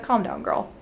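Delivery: gently calm her down. Retold or imitated. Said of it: "he's like".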